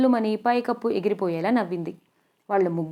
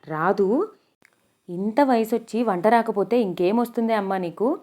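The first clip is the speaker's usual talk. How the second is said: shocked question rising at the end; incredulous echo. Acted. Mangamma echoes the girl's answer in shocked disbelief. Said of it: "ఆవిడ బుగ్గ మీద వేలేసుకుంది".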